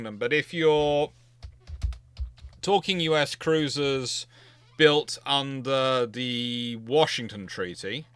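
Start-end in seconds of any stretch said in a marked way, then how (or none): 5.3-8.1 "under the Washington Treaty" drawn out slowly for emphasis; emphatic stress. Real, not acted. Answering a cruiser question, stressing which treaty applies, slow and emphatic. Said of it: "I do want to emphasize".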